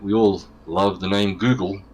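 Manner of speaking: dry mock praise; sarcastic. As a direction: say it pretending to love it. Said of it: "a bit of sarcasm there".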